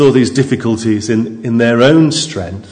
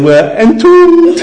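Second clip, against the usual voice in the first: high, slow, loud Scottish wail, laughing; Scottish Private Fraser; 6 dB louder, slower than usual. Retold or imitated. Private Fraser clip, Scottish wail of doom. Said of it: "one saying".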